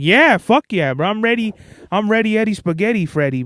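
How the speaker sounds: pumped, eager yell of being ready; hyped-up ready. Shown as a demonstration. Telling a nervous performer how to sound, pumped and eager. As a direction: sell it like you're fired up to go on stage. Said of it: "you gotta be like".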